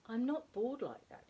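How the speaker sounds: a touch of wounded pride; indignantly. A narrator's reading. Plop objects to the drawing of himself, indignant. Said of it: "he said indignantly".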